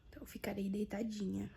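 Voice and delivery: weak, quiet and in pain. Real, not acted. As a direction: speak softly, worn out by pain. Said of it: "tô com muita dor".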